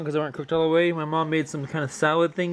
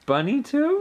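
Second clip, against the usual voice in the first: put-on baby talk; 11 semitones higher than usual. Parent cooing to baby.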